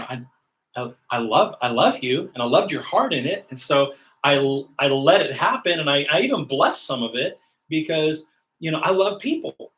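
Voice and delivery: loud, high, pleading declaration of love; fervent God voice. Acted. Preacher voicing God reassuring a burnt-out minister, fervent and loud. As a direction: pour it out, swelling with each phrase.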